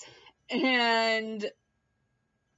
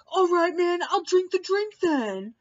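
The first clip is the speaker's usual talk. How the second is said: higher, put-on grudging giving in; grudging mock Mark; 9 semitones higher, 5 dB louder than usual. Mark agreeing to drink, higher put-on grudging voice. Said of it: "Mark was like".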